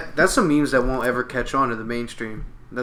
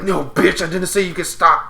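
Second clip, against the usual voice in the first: high cartoon voice; 6 semitones higher, 5 dB louder than usual. Voicing Doughboy in commercial.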